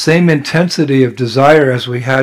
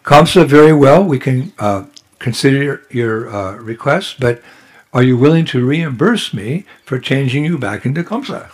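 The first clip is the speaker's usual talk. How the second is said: sweet voice. Acted. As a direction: lure him in gently. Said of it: "in a very sweet voice".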